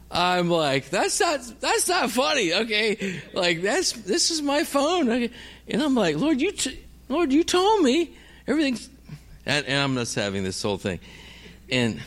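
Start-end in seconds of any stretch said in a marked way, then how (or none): 0.9-5.3 high-pitched, exasperated objection; indignant protest. Retold or imitated. Protesting at laughing police. 6.2-8.9 high-pitched complaint to the Lord; exasperated plea. Retold or imitated. Desperate complaint to God.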